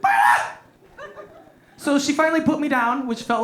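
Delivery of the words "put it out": short mock big man shout; comic attempt at a manly yell. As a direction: bellow it as a put-on big man. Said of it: "my, my big man voice".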